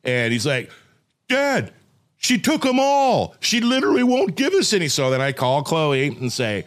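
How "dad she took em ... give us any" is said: high-pitched mock whine; crying kid. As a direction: plead to dad like a wailing child. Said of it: "Are you seriously freaking out and crying".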